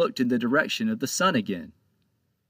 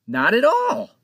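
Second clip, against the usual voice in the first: trembling; 11 semitones higher, 7 dB louder than usual. A narrator's reading. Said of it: "answered honestly with a tremble".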